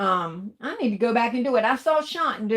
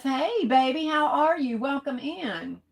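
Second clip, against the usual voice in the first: sing-song welcome; 4 semitones higher than usual. Real, not acted. Greeting a viewer joining the live.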